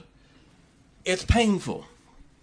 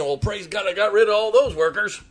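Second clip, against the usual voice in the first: mock praise; 5 semitones higher, faster than usual. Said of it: "Job wasn't saying".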